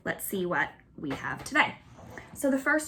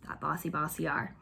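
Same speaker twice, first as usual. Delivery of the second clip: playful whisper; 3 semitones lower, 5 dB quieter than usual. Acted. Playful aside about bossy R.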